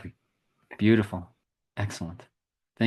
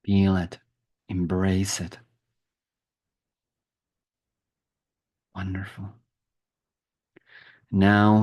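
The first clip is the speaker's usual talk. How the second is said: slow, measured meditation guide with long pauses; guided meditation. Acted. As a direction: ease them gently through a visualization. Leads a guided visualization.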